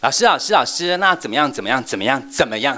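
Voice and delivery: put-on loud, high child pestering teacher; eager child. Shown as a demonstration. Child calling out to the teacher for answers, loud and high. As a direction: keep tugging at the teacher for an answer. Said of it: "真的是扮演哦".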